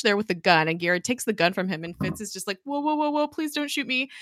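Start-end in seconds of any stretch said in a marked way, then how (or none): 2.6-4.1 high-pitched imitation of begging; mock panicked plea. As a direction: playfully imitate someone pleading for their life. Retold plea at gunpoint.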